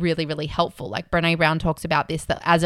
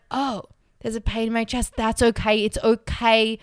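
calm acceptance; 3 semitones higher than usual. Retold or imitated. Scared flyer calmly accepting her chest pain, gentle. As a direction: ease into it calmly. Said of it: "if I'm able to be like".

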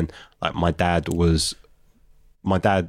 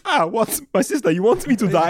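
shocked disbelief; 11 semitones higher than usual. Retold or imitated. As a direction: squeal it out in horror. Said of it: "I was like".

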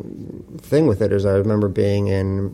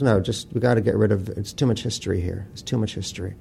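retold sadness, fading softer into a sigh; sad; 3 dB quieter than usual. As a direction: let it sink, softer on each line, weary of history. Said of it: "he said it with such sadness".

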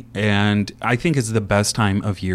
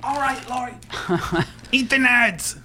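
high, off-mic, walking away; fading out; 3 dB quieter than usual. Real, not acted.

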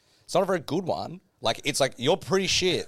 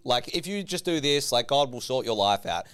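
higher, hyped-up promise-maker; mock sales pitch; 7 semitones higher, 4 dB louder than usual. Selling faith to a prospect with big promises, mock sales pitch. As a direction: oversell it like an eager recruiter.

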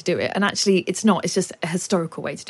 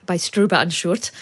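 German accent. Shown as a demonstration. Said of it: "I'm just using a German accent".

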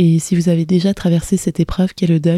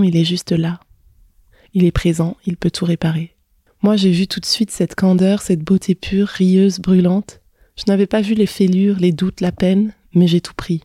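measured, intimate reading of a love text; literary reading. Acted. Podcaster reading her love letter to listeners, literary reading. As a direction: read it as a personal love letter, phrase by phrase.

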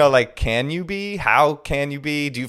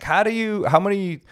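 imitating his son; 8 semitones higher than usual. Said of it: "He'll be like".

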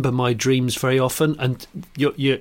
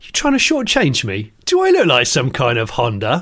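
mock-outraged Cockney, building louder; Cockney insult; 4 dB louder than usual. Cockney accuses someone of short-changing him, mock outrage. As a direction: challenge them as an offended Cockney, getting louder. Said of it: "said in a Cockney accent".

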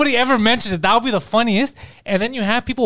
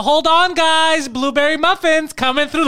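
breeze in high and singsong; over the top, flamboyant; 8 semitones higher than usual. Acted. Flamboyant biker brings muffins into meeting, theatrical. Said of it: "If he acts like that, over the top, flamboyant".

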